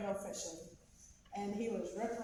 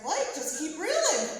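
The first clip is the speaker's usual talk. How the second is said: urgent encouragement; 7 semitones higher, 7 dB louder than usual. Retold or imitated. Mom urging son reeling in fish.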